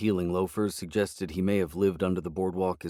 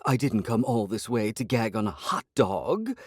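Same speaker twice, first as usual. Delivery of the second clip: snapped; 3 semitones higher than usual. Acted. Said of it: "she snapped".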